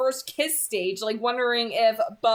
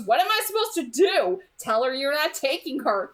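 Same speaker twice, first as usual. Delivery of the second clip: mock flustered boy; 4 semitones higher than usual. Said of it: "And he goes".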